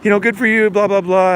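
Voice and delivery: mocking people who shrug off cancer; mock dismissive. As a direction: imitate people brushing it off. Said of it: "Most people don't notice anything".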